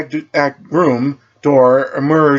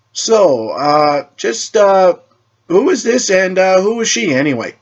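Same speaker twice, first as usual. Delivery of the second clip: flustered; 8 semitones higher, slower than usual. Acted. Flustered question about stranger.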